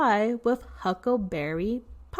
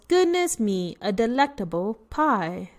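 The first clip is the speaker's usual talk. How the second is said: excited bear voice. Acted. Bear voiced reading storybook.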